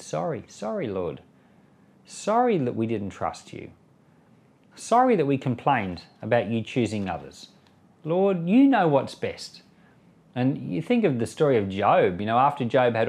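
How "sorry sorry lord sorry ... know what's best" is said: humble repentant apology. Retold or imitated. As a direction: say it like a penitent asking forgiveness. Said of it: "an attitude that said".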